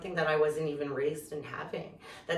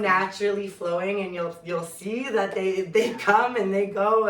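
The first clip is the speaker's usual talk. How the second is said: holding back tears; 3 semitones higher, 8 dB louder than usual. Real, not acted. Speaker thanking the group as her tears come, holding back crying. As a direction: push through welling tears, louder. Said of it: "I'm not gonna cry again".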